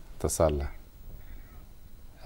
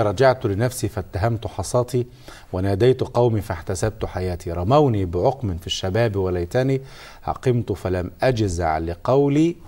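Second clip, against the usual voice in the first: poem recitation; slower than usual. Acted.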